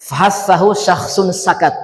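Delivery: slow, spelled-out Arabic mnemonic; slow mnemonic recital. Shown as a demonstration. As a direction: recite each word carefully for students. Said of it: "Hams itu hurufnya ada sepuluh".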